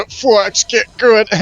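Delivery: high, loud taunting gamer jeer; mocking critic. Elitist fan telling the player to get good, mocking jeer. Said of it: "fuck the people that say".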